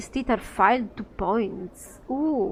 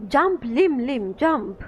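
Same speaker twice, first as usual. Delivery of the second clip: louder, commanding call; 4 semitones higher, 5 dB louder, slower than usual. Acted. Merchant ordering his Lim Lims to jump, calling out. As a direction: shout the command to the pets.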